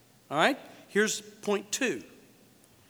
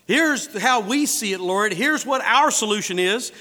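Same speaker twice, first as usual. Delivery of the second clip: loud, slow, emphatic declaration; loud, laboured acted explanation; presumptuous announcing; 6 dB louder than usual. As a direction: spell it out loudly as if informing God. Acting out people lecturing the Lord.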